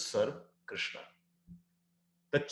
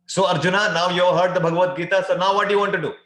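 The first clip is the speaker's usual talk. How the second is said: Krishna; 4 semitones higher, 8 dB louder than usual. Acted. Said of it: "Krishna will ask this question".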